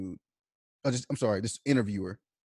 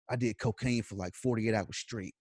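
low, softened, matter-of-fact admission; calm confession; 5 semitones lower, 8 dB quieter than usual. Retold or imitated. Mike calmly admits a cocaine binge to an interviewer, calm and low. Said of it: "calmly tells you how long they did cocaine".

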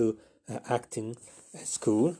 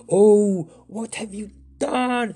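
much higher, slow reproach; telling off; 11 semitones higher, 7 dB louder, much slower than usual. Acted. Asparagus telling Flapperjack off, high and slow. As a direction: rebuke him slowly. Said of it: "This was Asparagus telling off".

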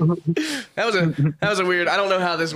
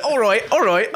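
higher, put-on British accent; English accent; 4 semitones higher, 4 dB louder than usual. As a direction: warm up a mock British accent. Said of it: "puts me in the mindset of it".

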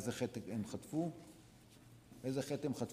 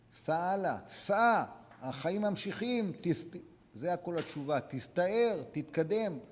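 louder, higher, urging them forward; rousing exhortation; 4 semitones higher, 4 dB louder, slower than usual. Real, not acted. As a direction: push the crowd to move on. Preacher urging the audience on.

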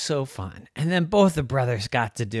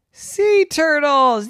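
high, slow breathless whisper; excited whisper; 11 dB louder, much slower than usual. Acted. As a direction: gasp it out in wonder. Kids spot the turtle.

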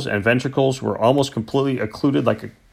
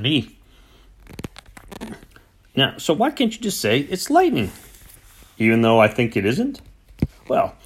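farmer's conspiratorial hoarse whisper; wheedling hoarse whisper; 3 semitones higher than usual. Acted. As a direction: coax him to lie for the insurance. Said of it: "wheedling note in the hoarse whisper".

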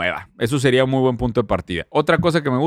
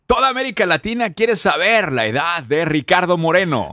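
announcer voice; 3 semitones higher than usual. Pretend. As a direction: boom it like a radio host. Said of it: "lo voy a decir hasta en mi voz de locutor".

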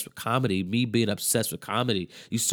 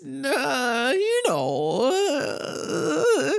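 very high, slow, wavering comic voice; a slow, sky-high, quavering put-on voice; Emo Phillips voice; 14 semitones higher, much slower than usual. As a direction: do the comedian's famous high whiny warble. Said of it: "he talks like this".

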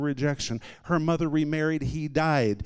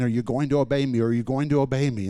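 louder, insistently repeated question; persistent pressing; 5 dB louder, faster than usual. Retold or imitated. Holy Spirit pressing the stalling preacher, insistent. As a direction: imitate someone who will not let it drop. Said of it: "the Holy Spirit kept saying".

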